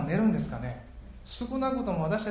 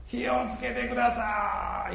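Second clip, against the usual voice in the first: slow, higher imitated pleading call; mock plea; 8 semitones higher, much slower than usual. Prophets begging Baal for fire, slow high mock plea. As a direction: beg slowly for fire, a playful imitation. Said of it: "って叫んだかもしれませんね".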